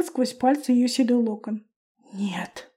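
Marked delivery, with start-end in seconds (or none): 2.1-2.7 breathy whispered dismay; a whispered no on seeing her grey hair; sighed whisper. A narrator's reading. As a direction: let it out on a sigh, whispered. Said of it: "вздохнула она".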